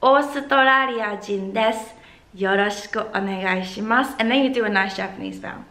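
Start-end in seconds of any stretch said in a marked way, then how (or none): 0.0-4.1 brisk full recital. Shown as a demonstration. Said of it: "put that whole passage together".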